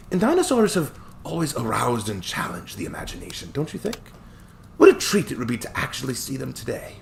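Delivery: put-on chuckling old attorney, light Scottish touch; cheerful old Scottish lawyer. Hammond musing.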